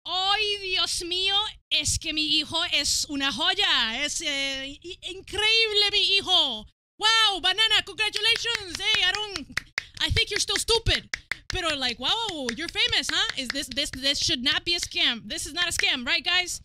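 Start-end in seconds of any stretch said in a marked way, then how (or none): 0.1-6.7 proud mom. Acted. Voices proud Spanish mom. 7.0-13.3 high, loud congratulations; excited praise. Real, not acted. Streamer congratulating Banana, high and loud.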